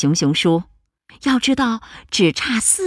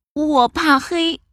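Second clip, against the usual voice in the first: high small cub voice; timid little bear; 10 semitones higher, slower than usual. Acted. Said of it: "小小熊说".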